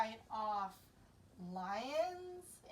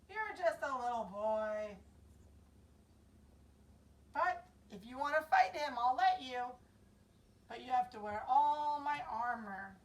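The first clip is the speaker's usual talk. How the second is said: doubtful king; 5 dB louder than usual. Acted. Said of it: "And Saul said".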